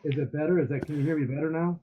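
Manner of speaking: muffled, far from the phone. Real, not acted. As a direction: speak through a muffled mic. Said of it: "it's still muffled on my end".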